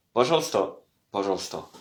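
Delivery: пожалуйста modelled twice as pazhalsta; пожалуйста, clear teacher model; repeat after me. Shown as a demonstration. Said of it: "on dit пожалуйста".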